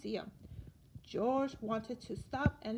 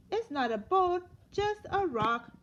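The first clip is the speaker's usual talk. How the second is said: mild letdown; 5 semitones higher, 6 dB louder than usual. Acted. Scientist disappointed by find.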